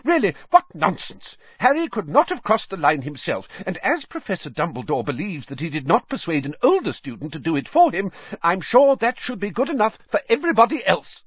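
rapid-fire fury at the nonsense; angry. A narrator's reading. McGonagall rounding on Dumbledore and the judges, angrily. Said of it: "said Professor McGonagall angrily".

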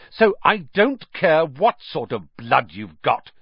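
slow, fierce and pointed. Acted. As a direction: lean into it fiercely. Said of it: "said Harry fiercely".

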